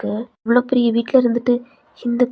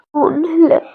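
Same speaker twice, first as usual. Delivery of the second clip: shouted denial; 5 semitones higher, 6 dB louder than usual. Acted. Daughter denies crying to mother.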